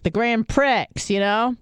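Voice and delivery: know-it-all retold voice; schooling someone. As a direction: spell it out for a clueless coworker. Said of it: "I'm, like, schooling him".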